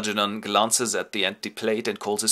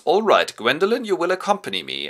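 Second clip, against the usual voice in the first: lightly voiced Lady Bracknell; 8 semitones higher, 4 dB louder than usual. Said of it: "And Lady Bracknell goes".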